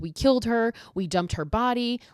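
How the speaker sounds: lightly acted crying plea; mock crying. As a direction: imitate a distraught girl confessing, without real sobs. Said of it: "And she's crying".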